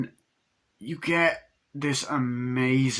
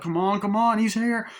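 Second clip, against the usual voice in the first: high, pressing panic; hammed-up frightened urging; mock urgency; 9 semitones higher, 4 dB louder than usual. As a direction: imitate hurrying someone as danger nears. Victim panics at the door.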